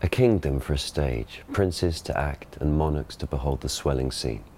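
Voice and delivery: received pronunciation stage reading; modern RP Shakespeare. Shown as a demonstration. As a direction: classic RP verse delivery. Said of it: "the speaker gives the modern pronunciation".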